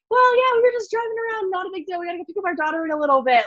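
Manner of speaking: high-pitched, over-casual excuse, re-enacted; mock-casual cover story. Caught by relatives at the store, re-enacting an over-casual excuse.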